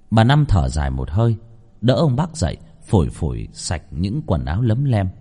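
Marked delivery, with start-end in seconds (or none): none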